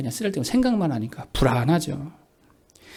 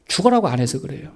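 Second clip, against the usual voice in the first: ordinary talk, nothing marked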